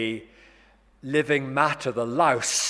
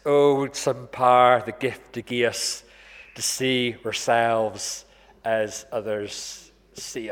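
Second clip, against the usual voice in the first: put-on Scottish accent; slower than usual. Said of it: "I'm not trying my best Scottish accent".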